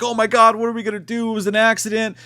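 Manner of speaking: high-pitched freaking out; hammed-up fretful whine; mock panic. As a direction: imitate a panicked guy pleading. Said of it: "he's crying and freaking out".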